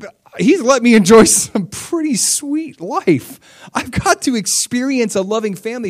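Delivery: high, loud, emphatic retold awe; impassioned gratitude. Job marveling at God's goodness to him, high-pitched impassioned gratitude. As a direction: imitate an overwhelmed believer, stretching the key words. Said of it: "He's like".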